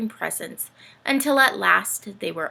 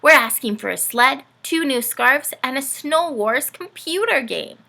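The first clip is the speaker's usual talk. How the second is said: louder, higher eager listing; excited child; 5 semitones higher, 6 dB louder than usual. Acted. Rory showing Dorothy their list, eager. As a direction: rattle off the wish list.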